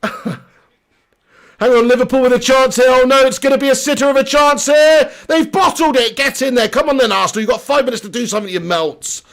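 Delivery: excited match reaction. Real, not acted. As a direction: yell at your team as the chance unfolds. Live reaction to match chance.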